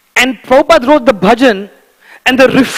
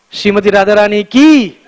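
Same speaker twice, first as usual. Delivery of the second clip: call and response; 3 dB louder than usual. Real, not acted. Call to the congregation.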